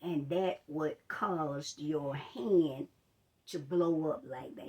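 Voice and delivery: slow, low, careful explanation; walk her through it gently and slowly; patient doctor explaining. Retold or imitated. Doctor explaining to the patient what went wrong, slow calm voice. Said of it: "he said".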